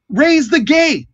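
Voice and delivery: high, drawn-out shouted order; long, high call; yelled command. Acted. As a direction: bellow it up to the gate crew. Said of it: "And then he yells out".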